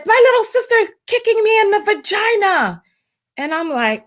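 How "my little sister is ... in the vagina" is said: imitating little girl. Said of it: "and says".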